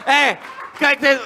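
put-on speechmaking dictator with a Belgian accent. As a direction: play a pompous Hitler with a Belgian accent. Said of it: "toi, Hitler belge?".

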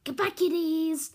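loud mock Russian goodbye; Russian accent. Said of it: "this is my Russian accent".

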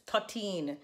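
Crucian thirteen, dialect pronunciation; Virgin Islands accent. Shown as a demonstration. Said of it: "my dialect".

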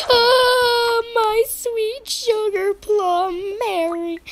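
high, loud, very slow gush; hammed-up gushing mom. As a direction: croon it dramatically. Mom gushes over daughter.

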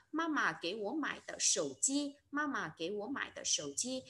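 slow model sentence with "tợ" before "sổ chi"; "tợ" reading. Shown as a demonstration. Teacher showing learners a longer example, slowly modelling "tợ". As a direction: read it out slowly, linking with "tợ". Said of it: "dùng từ tợ để kết nối".

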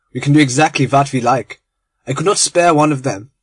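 lightly voiced German gentleman, cheerful and hospitable; a hint of a friendly German host; genial German conspirator. Genial German welcoming his guest Lord Arthur, light accent.

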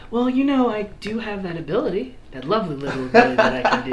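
altered, strange voice after a throat click; voice through a throat device. Acted. Xavier showing off his throat voice trick. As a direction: speak as if through a voice changer. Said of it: "He goes".

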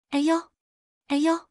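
narrator's high little "ow, ow"; crying out. A narrator's reading. Mother grabbed by the wrist, crying out. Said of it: "他喊叫着说".

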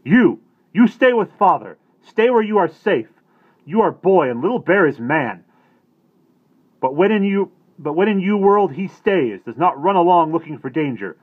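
loud, high furious scolding. A narrator's reading. Little Bear scolding the boy who wandered off, furious shout. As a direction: tear into the boy at full volume. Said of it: "give him the bollocking of all time".

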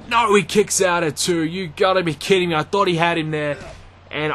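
live ringside play-by-play, rising with the action; wrestling commentator. Acted. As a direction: call the match as it happens.

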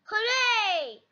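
high, stretched cheer. Acted. All the friends get giant teddies, cheering. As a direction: cheer high at moderate volume. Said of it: "everyone cheers".

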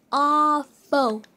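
a loud, disgusted call of awful; exasperated outburst at the bad trades; loud groan. Real, not acted. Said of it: "these trades are awful".

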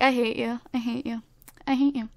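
quiet, half-whispered mock sulk; a light put-on pout voice; sulky Sim voice. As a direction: play the sulking Sim, drop to a whisper. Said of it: "Why do I keep doing that voice today?".

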